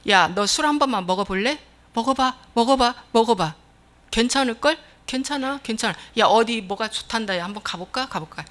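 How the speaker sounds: soft coaxing. Acted. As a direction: nudge a friend into mischief gently. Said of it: "부드럽게 말하는 건".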